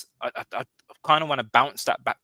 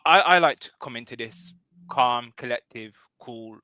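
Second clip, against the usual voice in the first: mock calm; 5 dB louder than usual. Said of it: "I am not cool".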